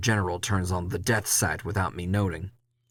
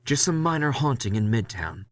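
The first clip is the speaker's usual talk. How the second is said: dismissive boss; 4 semitones higher than usual. Acted. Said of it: "Leslie dismisses".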